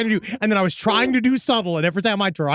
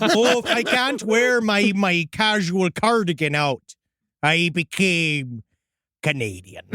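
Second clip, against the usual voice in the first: mocking voice; slower than usual. Mocking someone who fled, retold.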